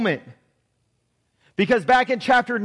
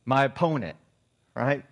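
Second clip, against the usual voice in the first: mock politician; 8 semitones lower, 4 dB quieter than usual. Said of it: "He's the true politician".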